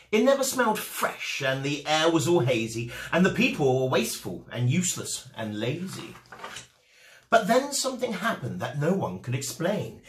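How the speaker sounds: lively storybook narration with rhyme and bounce; reading to children. A narrator's reading. Host reading a rhyming picture book to children, lively. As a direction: read it like bedtime story time for kids.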